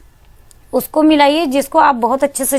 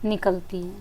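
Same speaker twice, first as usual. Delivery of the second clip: soft breathy demo; 3 semitones lower, 12 dB quieter than usual. Shown as a demonstration. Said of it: "मुख से गर्माहट निकलती है".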